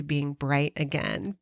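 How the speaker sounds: hushed hopeful murmur; soft first take. Real, not acted. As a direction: say it quietly to yourself. Repeats phrase softly then strongly.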